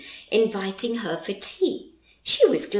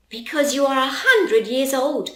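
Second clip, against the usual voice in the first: laughing; 5 semitones higher, 5 dB louder than usual. Acted. Charlie teasing grandma.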